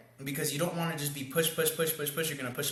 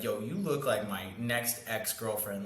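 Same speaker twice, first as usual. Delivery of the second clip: joking with a laugh; 4 semitones lower, 4 dB quieter, slower than usual. Shown as a demonstration. Coach demos his pickup line, ending in a big laugh. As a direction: drop the line slowly, then crack up at it. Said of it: "I say it with a laugh like that".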